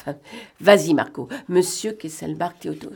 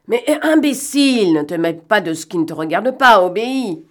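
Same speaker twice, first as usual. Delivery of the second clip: loud, raised-pitch rebuke; angry scolding; 3 semitones higher, 5 dB louder than usual. Acted. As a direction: tear into a bungling underling. Scolds accomplice, gives an order.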